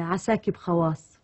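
slow Bedouin Arabic greeting; bedouin arabic accent. Shown as a demonstration. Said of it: "قولي لي حاجة كده".

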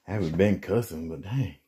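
a bit winded from moving furniture; out of breath. Real, not acted. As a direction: talk between breaths. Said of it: "Maybe 'cause I'm out of breath".

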